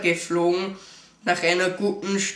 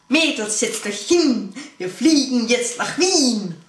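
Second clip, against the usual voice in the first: rhyming captain announcement; 4 semitones higher, 4 dB louder than usual. Retold or imitated. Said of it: "sprach der Kapitän in Reimen".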